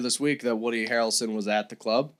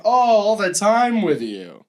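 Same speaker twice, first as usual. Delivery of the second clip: mock nonchalant; 6 semitones higher, 4 dB louder, slower than usual. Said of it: "That's legitimately how she acts".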